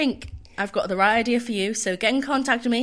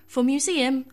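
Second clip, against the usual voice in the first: slow, formal platform announcement; tube lady voice. Pretend. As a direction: announce it like the Underground. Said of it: "in your best tube lady voice".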